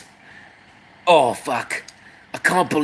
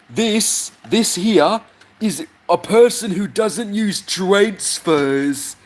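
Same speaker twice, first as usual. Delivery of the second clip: high slow voice; 5 semitones higher, slower than usual. Acted. High slow mock presenter.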